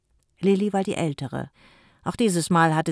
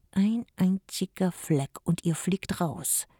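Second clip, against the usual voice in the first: slow hissed threat; hissing threat; 4 semitones higher, slower than usual. Acted. Jim threatens the children, slow hiss. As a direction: hiss a warning at the kids. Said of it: "zischte Jim den Kindern zu".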